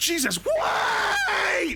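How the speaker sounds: very high, swooping, shrill shriek. A character answers a sudden hello by screaming. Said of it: "Sorry for screaming".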